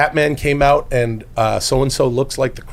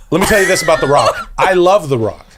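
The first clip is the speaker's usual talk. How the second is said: Hulk Hogan voice; 3 semitones higher than usual. Acted. Hogan promo catchphrase.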